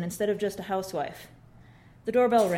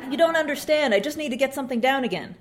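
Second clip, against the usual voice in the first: louder, higher, fast exasperated plea; 4 semitones higher, 3 dB louder than usual. Acted. Mother arguing with the rep, exasperated. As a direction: push back in frustration. Frustrated mom pleads.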